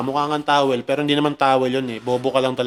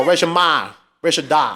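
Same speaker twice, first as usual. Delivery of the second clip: Boston accent again. Shown as a demonstration. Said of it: "accent ng mga Boston".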